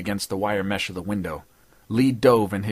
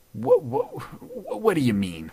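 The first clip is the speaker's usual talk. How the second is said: faltered; 12 semitones higher than usual. Acted. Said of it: "faltered Greasy".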